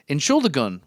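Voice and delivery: Entschuldigung said in German; German word. Retold or imitated. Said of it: "which means, "Excuse me".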